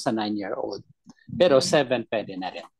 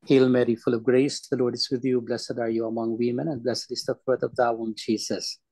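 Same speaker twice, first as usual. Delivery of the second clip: prayer recitation; 2 semitones lower than usual. Acted. Leads the Hail Mary.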